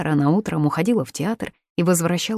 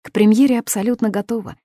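rattled off; 4 semitones higher, 4 dB louder than usual. Acted. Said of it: "скороговоркой ответила Мила".

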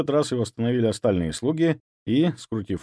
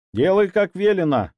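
higher, louder command; sharp shout; 9 semitones higher, 5 dB louder than usual. Acted. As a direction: bark the order. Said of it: "прикрикнул друг". (прикрикнуть резко)

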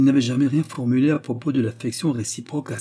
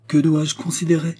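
disdainful; 7 semitones higher, 5 dB louder than usual. A narrator's reading. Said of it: "demanda-t-elle dédaigneusement".

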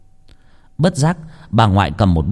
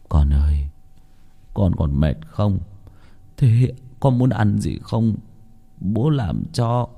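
sad, gentle father; slower than usual. Acted. Father gently asks his sick son, sorrowful. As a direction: ask tenderly through sorrow. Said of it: "buồn rầu hỏi".

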